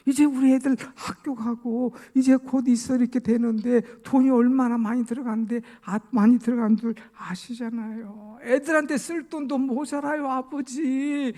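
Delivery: high, loud, whiny protest; hammed-up complaint, last word dragged out; acted pleading excuse. Son pleading poverty to his father.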